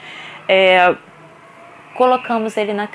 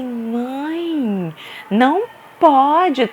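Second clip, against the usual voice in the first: mock-stern scold; stern staff voice; 3 semitones higher, much slower than usual. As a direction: imitate the worker forbidding it. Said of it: "falou assim".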